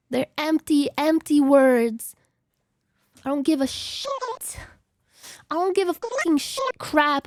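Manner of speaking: hammed-up bitter tirade; mock angry rant. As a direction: spit out a put-on rejection of praise.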